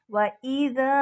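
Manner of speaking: व इज़ा with a soft ज़ाल, as in 'the'; soft dhaal. Shown as a demonstration. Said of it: "ज़ाल को नरमी से बोलेंगे". (इज़ा में ज़ाल नरमी से)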